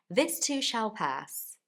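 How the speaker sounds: slow, deliberate delivery; slow catchphrase. Shown as a demonstration. Teacher repeating her motto slowly.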